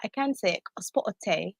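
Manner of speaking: lightly performed British English; British accent. Shown as a demonstration. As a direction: show off a British turn of phrase. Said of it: "British accent for them to hear".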